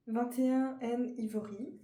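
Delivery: English shade name in a French accent. Real, not acted. Vlogger reading out her foundation shade, French accent. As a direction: say the English word with a slow, strong French accent. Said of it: "avec mon bel accent, euh, français".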